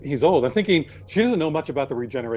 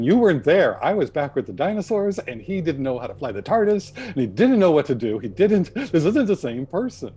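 mock angry; 4 semitones higher, 3 dB louder than usual. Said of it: "she gets so pissed, going".

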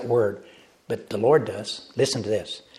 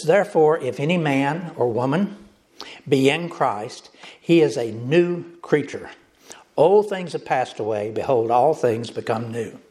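preacher reading the verse with lift and weight; scripture reading. Acted. Pastor reading verse to congregation, solemn reading. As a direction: read it out as holy words.

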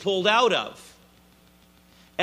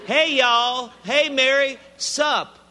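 higher, breezy Southern "Hey, Mary. Sup?"; mock casual angel in a Southern lilt; casual Southern greeting; 6 semitones higher, 4 dB louder than usual. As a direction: goof on a lazy greeting. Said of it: "That's how we say it in the South".

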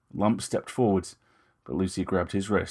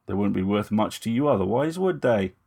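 Lucy's measured, slightly raised voice; Lucy, poised young woman; 4 dB louder than usual. Acted. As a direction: speak as Lucy, politely defiant. Lucy answers Moust.

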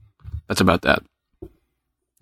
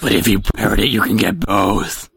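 whiny voice. Acted. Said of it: "was the most whiny voice ever".

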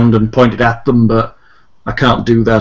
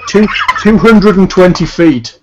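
giggling through the number; laughing; 7 semitones higher, 4 dB louder than usual. Real, not acted. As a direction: laugh while saying it. Laughing at own answer.

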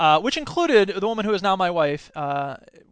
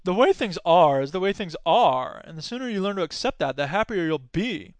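resigned cow. Retold or imitated. Cow in Babe counselling the duck, resigned. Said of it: "the cow turns to the duck and says".

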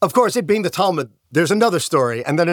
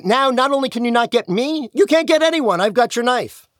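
higher, mocking gloat; gleeful taunt; 6 semitones higher than usual. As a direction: rub it in, voice climbing. Rabbi taunts the angel.

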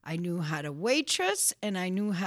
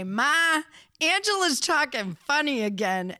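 brother calling to Ma; 5 semitones higher, 4 dB louder than usual. Retold or imitated. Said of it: "my brother would say".

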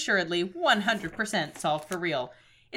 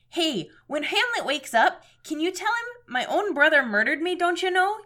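put-on Minnesota accent; 7 semitones higher, 4 dB louder than usual. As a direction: play it broad Minnesotan, like Fargo. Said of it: "supposed to be doing a Minnesota voice".

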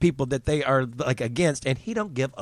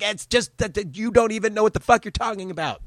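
mock retort; 8 semitones higher than usual. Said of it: "I'm like".

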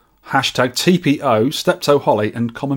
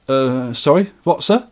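puzzled shop assistant, rising at the end; baffled sales assistant. Acted. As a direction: politely ask the customer to repeat. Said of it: "Him to sales assistant".

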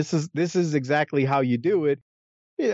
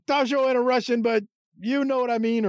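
Bill Watts impression; 9 semitones higher than usual. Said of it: "he's like".

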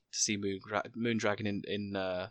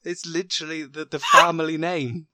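higher, loud and laughing; laughing self-mockery; 5 semitones higher, 6 dB louder than usual. Real, not acted. Admitting he missed the obvious clue, laughing exclamation.

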